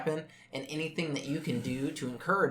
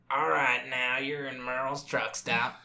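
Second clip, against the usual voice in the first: announcer; slower than usual. Retold or imitated. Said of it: "And he's like".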